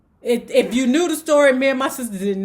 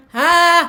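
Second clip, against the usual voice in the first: mock holler; 5 semitones higher, 5 dB louder than usual. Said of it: "My mother hollering".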